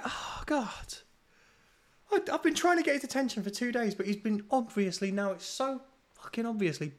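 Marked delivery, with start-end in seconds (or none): 0.0-1.0 exasperated whisper. Retold or imitated. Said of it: "I'm like".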